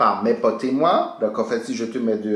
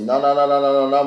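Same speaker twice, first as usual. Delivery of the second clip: emphatic retold refusal; 4 semitones higher, 6 dB louder than usual. Refusing friends, angry retold refusal.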